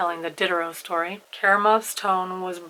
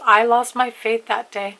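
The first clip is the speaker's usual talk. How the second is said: slow, louder taunting jab; 3 semitones higher, 6 dB louder than usual. Acted. Karamazov taunting the elder's circle, slow and loud. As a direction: needle him, dragging the words. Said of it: "still taunting him".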